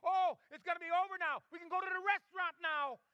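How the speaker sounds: high, loud mock-gleeful cry; excited child. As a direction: act out a boy's mounting anticipation. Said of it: "he began to get excited".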